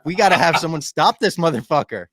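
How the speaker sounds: playfully dramatic call for a hero; fired-up plea. Retold or imitated. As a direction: build from a groan to an urgent hammed-up plea. Retells fired-up reaction to the finale.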